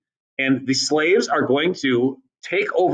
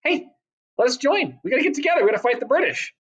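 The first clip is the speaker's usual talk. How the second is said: eager French plea; 10 semitones higher, faster than usual. Retold or imitated. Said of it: "they're like".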